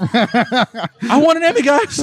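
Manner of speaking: put-on whining like a spoiled kid; whiny spoiled pouty drawl. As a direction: pout and drag the words out. Pouty plea for an award.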